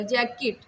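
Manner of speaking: "जैकेट" in two beats, jack-ket; split into syllables. Shown as a demonstration. Teacher joining two syllables for students, "जैकेट" split at the k. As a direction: hold the k briefly between the halves of "जैकेट". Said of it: "किट दूसरा syllable".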